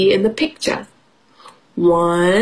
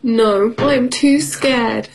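scared cat voice; 2 semitones higher, slower than usual. Acted. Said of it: "says Tiger".

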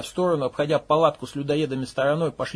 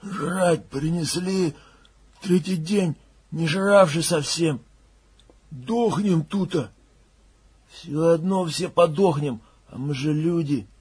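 slow, odd, ominous murmur; slow eerie voices of the starving; sinister muttering; 2 semitones higher, slower than usual. Acted. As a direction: drag it out like a starving ghoul. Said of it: "шипящее зловещее".

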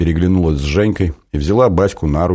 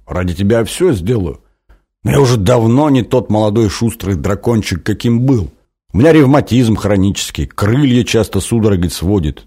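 put-on old dragon whining; 3 semitones higher than usual.

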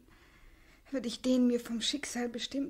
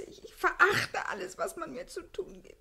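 tearful outburst; 4 semitones higher than usual. Acted. Crying outburst.

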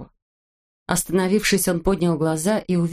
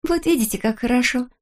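higher, gladdened lilt; pleased; 6 semitones higher than usual. A narrator's reading. Girl glad the boy has promised, pleased. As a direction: rejoice lightly at the good news. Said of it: "обрадовалась Синеглазка".

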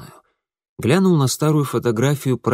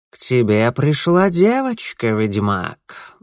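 velvety cat voice; slower than usual. Acted. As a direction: purr it like a smug tomcat. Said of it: "бархатным голосом сообщил скарбник". (бархатный кошачий голос)

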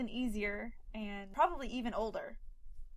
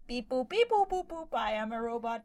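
even machine gun syllables; robot voice; 5 semitones higher than usual. Pretend. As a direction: beep boop robot chatter. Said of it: "she is a sentient robot".

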